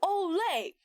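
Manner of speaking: Olay said as oh-LAY; Olay with an L for okay; mispronounced okay. Acted. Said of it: "He said Olay".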